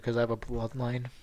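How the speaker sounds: normal talking voice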